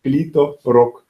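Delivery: laughing. Real, not acted. Still laughing at the joke.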